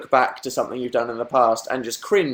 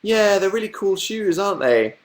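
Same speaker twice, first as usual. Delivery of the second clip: awkward reply; 6 semitones higher than usual. Retold or imitated. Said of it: "I just look down at my shoes and go".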